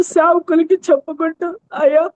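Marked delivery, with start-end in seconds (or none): 1.7-2.1 pleading for her husband, voice breaking; weepy plea, a touch of sobbing; crying prayer. Retold or imitated. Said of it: "అని ఎక్కువగా ఏడ్చేదాన్ని".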